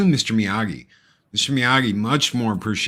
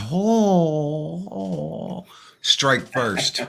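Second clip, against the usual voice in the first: lightly voiced drill sensei barking orders; a hint of a hard-nosed karate coach, slow on no mercy; John Kreese; 4 semitones higher, much slower than usual. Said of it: "John Kreese, man".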